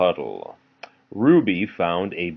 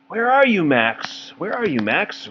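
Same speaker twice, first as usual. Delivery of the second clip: much higher searching call; Ruby calling out; 10 semitones higher than usual. Acted. Parent voices Ruby searching for Max, high call. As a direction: call across the garden for her brother. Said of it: "Ruby called".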